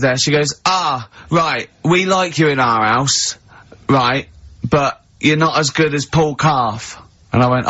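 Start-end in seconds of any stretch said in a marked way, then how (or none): 0.6-7.0 lightly imitated tipsy fan, slow; a hint of drunken, drawn-out bluntness; tipsy woman. Drunk fan approaching comedian in pub, lightly slurred imitation. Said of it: "they're a bit pissed up".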